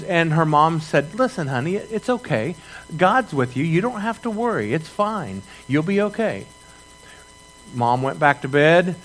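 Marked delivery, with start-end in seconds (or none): 1.1-6.4 higher, softer motherly reassurance; mother hushing her child after the thunder, soft and high; soothing mother. Retold or imitated. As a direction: soothe a frightened little girl at bedtime.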